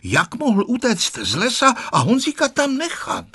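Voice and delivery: high-pitched indignant questions; mild scandalised outrage; angry headmaster. A narrator's reading. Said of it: "Ředitel Stolař se zlobil".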